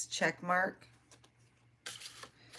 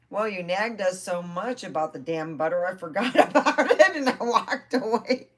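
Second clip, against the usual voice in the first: loud, higher, laughing through it; laughing retort; 5 semitones higher, 10 dB louder than usual. Retold or imitated. Telling grandma about the forgotten butter, laughing. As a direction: crack up mid-excuse.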